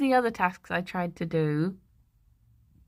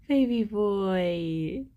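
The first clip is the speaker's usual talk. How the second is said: tender coo; much slower than usual. Real, not acted. Soothing her pet once he settles, slow tender coo. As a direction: drawl it out tenderly.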